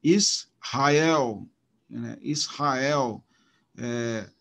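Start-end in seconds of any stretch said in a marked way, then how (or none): 0.0-1.5 "Israel" with the weight on the final EL; stress on EL. Shown as a demonstration. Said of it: "a sílaba tônica está no el". 2.2-3.2 "Israel" stressed on the closing EL; teacher's demo, isra-EL. Shown as a demonstration. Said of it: "a sílaba tônica está no el".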